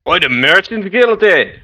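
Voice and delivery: a lightly voiced Scottish merchant, half-hearted; a rough try at a Scots market trader; Scottish accent attempt. Merchant answers the lost adventurer in a rough Scottish accent. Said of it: "Why are you talking Jamaican?".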